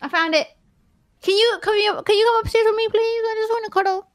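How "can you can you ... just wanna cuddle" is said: pleading. Pretend. Pleading to come upstairs.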